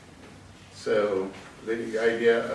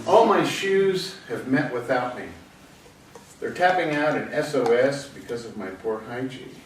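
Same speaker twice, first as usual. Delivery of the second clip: measured poem-reading delivery; poetry reading. Acted. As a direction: read it out as a poem, phrase by phrase. Reads own poem aloud.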